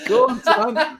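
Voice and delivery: high, loud laughing urge. Real, not acted. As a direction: laugh while urging him on. Laughing encouragement.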